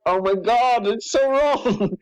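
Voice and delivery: very high, drawn-out cringing wail; appalled wail. Real, not acted. Reader appalled by the dialogue just read, high wail. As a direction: wail it slowly, mortified.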